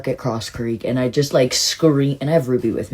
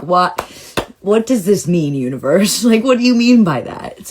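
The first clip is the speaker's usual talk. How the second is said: raised, higher mock shout at the universe; retold shouting; 4 semitones higher, 4 dB louder than usual. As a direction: demand an answer, half-laughing, voice lifted. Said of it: "literally just shouting aloud".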